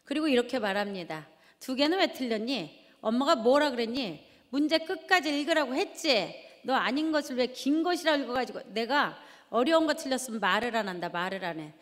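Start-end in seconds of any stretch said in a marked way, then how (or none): 1.6-11.7 scolding. Retold or imitated. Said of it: "또 쏘아붙이죠".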